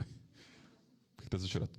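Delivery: slow, breathy whispered question. Retold or imitated. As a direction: whisper the question slowly and gently. Re-enacting the question, hushed. (pergunta sussurrada devagar)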